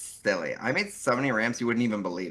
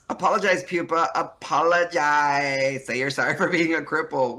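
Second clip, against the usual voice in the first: bossy taunting; 4 semitones higher, 5 dB louder than usual. Acted. Taunting demand in character.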